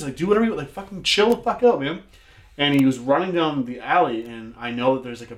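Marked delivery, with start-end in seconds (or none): 0.2-2.0 higher-pitched retold exasperation; heated mock telling-off; exasperated retort. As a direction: snap back at someone overreacting, acted out. Retold shouting back at panicking man.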